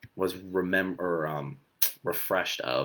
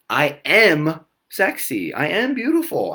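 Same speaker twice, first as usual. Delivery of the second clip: mock-glamorous affirmation; 7 semitones higher, 6 dB louder, slower than usual. Shown as a demonstration. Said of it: "affirmation of yours".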